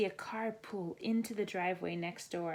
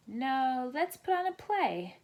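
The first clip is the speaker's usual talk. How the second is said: high, eager counter-offer; insistent; 5 semitones higher, 5 dB louder than usual. A narrator's reading. Olivia insisting on her own game, eager. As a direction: jump in with a better idea. Kids arguing over games.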